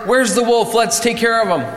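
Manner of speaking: high-pitched, eager rescuers; rally everyone to the chase; urgent rallying. Acted. Villagers running to help the boy, urgent rallying.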